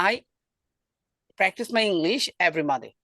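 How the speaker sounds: slow demo. Shown as a demonstration. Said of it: "এখান থেকে দেখাই".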